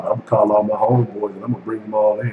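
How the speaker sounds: lightly voiced braggy homeboy, put-on tone; a hint of a cocky caller; mocking the trolls. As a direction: mimic a troll rounding up his crew. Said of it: "'cause they talk".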